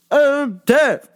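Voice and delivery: a mild mock shout of I'm deaf; retold yell. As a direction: snap it back like she's annoyed. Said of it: "now that you yelled at me".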